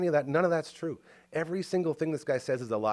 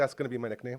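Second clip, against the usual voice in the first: ordinary talk, nothing marked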